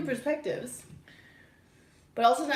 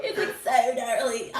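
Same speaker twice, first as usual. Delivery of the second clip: surfer voice; 3 dB louder, slower than usual. Retold or imitated. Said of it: "like a surfer".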